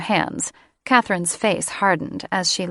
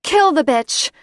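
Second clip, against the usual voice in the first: much higher, louder hellcat screech; enraged screech; 9 semitones higher, 6 dB louder than usual. Acted. Felix shrieking at the catfight, loud enraged screech. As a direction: screech for blood. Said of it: "a screech that sounded like an enraged hellcat".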